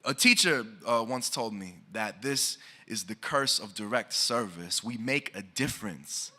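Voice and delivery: measured, rhythmic spoken word delivery; slam poem recitation. Acted. Poet reciting to the audience, rhythmic spoken word. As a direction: perform the poem to a listening room.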